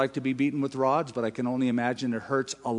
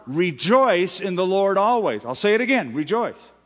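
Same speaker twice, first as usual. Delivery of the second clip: mock order; 5 semitones higher, 4 dB louder than usual. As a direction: give it as an order. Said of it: "here's an order".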